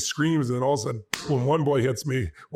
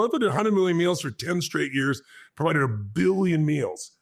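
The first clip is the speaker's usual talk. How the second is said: growing excitement; 4 semitones higher than usual. Retold or imitated. Speaker dreaming up a billion meals for the audience, building excitement. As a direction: pitch jumps higher, then slows on a billion meals. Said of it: "that is an exciting outcome".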